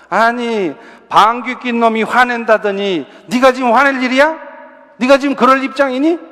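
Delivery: acted-out reproach; scolding parent. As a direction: imitate a parent telling off a child with indignant questions. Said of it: "야단부터 친다는 거예요".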